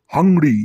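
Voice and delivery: "হাংরি" hit hard with a stretched ending; emphatic, hungry "হাংরি"; ravenous. Shown as a demonstration. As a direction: say "হাংরি" as if starving. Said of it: "এইভাবে বলতে হবে".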